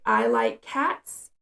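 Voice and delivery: "I like cats" repeated slowly, word by word; slow, careful repeat of the sentence; slow child repeat. Retold or imitated. Child repeating the sentence to the parent, slow and careful. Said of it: "They'll say".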